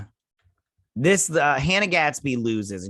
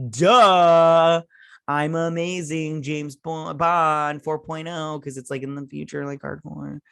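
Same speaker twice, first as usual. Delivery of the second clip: higher, smug show-off quote; smug bragging; 4 semitones higher, 4 dB louder, slower than usual. Retold or imitated. Character bragging to admiral about her trick, smug and higher. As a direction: gloat like a cocky spy.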